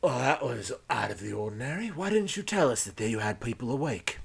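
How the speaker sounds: rough questioning of a captive; lightly put-on pirate voice, needling; lightly voiced pirate. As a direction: confront the informant with a put-on voice. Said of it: "you hear a voice go".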